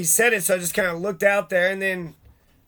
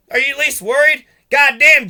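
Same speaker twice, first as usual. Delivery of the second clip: angry outburst; 5 semitones higher, 8 dB louder than usual. Real, not acted. Angry rant at the locals.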